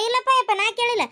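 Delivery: whimpering, near tears; tearful denial. Acted. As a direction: plead through a sob. Denying asking for money, pleading. (ಅಳುತ್ತಾ ನಿರಾಕರಣೆ)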